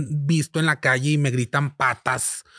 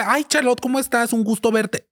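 higher, sugary pretend friendliness; fake sweet greeting; 5 semitones higher than usual. Pretending to greet Charlotte warmly, mock sweet. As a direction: greet her like you're thrilled, falsely.

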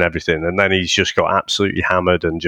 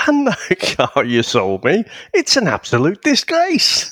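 mock outraged fan; 8 semitones higher than usual. Retelling an angry fan's jibe.

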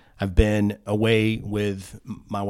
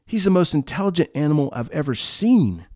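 higher, wondering praise; amazed butcher; 6 semitones higher than usual. Acted. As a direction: marvel at the clever dog. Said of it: "yells the butcher".

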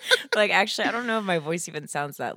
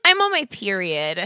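put-on girl line; 3 semitones higher, 7 dB louder than usual. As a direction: say it as the girl impression. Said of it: "I like that".

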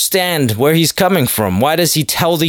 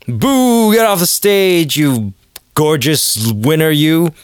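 mock heckling; 3 semitones higher, slower than usual. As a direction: heckle the comic in mock disgust. Acts out a heckler booing.

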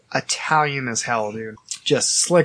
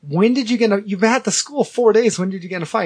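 raised-pitch incredulous questioning; retold disbelief; 5 semitones higher, faster than usual. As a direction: re-enact trying to make sense of it. Retold disbelieving interrogation of classmate.

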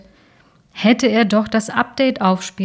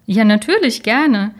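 delighted; 3 semitones higher, 5 dB louder than usual. Acted. Delighted yes to a date.

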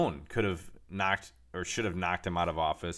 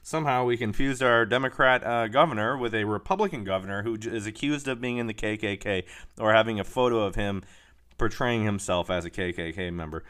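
mocking news anchor; 4 dB louder than usual. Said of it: "had to backtrack and say".

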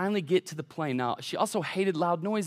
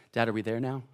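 put-on lower, softer kid's question; small child asking; 6 semitones lower, 6 dB quieter, faster than usual. Three-year-old asks Dad ten minutes later, softly.

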